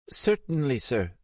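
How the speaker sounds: a touch of a flustered receptionist caught off guard. Acted. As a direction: receptionist told it's national security, mildly flustered. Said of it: "sounding flustered".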